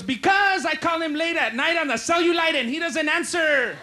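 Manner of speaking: high, worked-up grandma rant; indignant grandma. Acted. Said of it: "And she goes".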